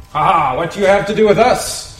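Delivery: a high, loud sneering demon taunt; lightly voiced jeering demon; mocking demon. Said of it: "I love the way the demons talk".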